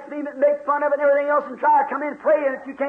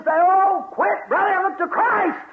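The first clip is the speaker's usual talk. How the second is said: higher preachy voice; mock church adviser; 6 semitones higher, slower than usual. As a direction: coax like a churchgoer.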